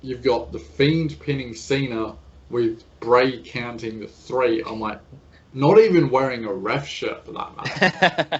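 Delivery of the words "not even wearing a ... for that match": laughing through the words, a bit slow. Real, not acted. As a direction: chuckle while pointing out the absurdity. Mocking the ref-less match.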